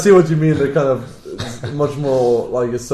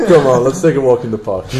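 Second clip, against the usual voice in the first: creepy voice; 6 dB louder than usual. Pretend. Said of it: "You sounded like a, such a big rapist now".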